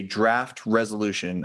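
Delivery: "draft" stressed and drawn out a little; slow down and lean on "draft". Real, not acted. Chair presenting documents to the board, stressing "draft". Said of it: "I wanna emphasize the word draft".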